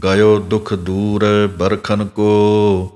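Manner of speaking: slow, sung sacred verse over music; gurbani recitation. Shown as a demonstration. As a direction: chant the verse devotionally, slowly. Sings final verse. (ਹੌਲੀ ਸੁਰੀਲਾ ਪਾਠ)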